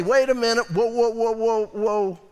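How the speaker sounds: whoa, whoa, like reining in a horse; firm stop. Shown as a demonstration. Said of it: "here's what you need to say".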